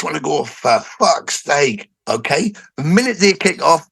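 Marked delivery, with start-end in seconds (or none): 0.4-1.9 long drawn-out, exasperated curse; acted exasperation. Fan venting at a show after daily constraints, acted exasperation. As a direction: stretch each word slowly to vent.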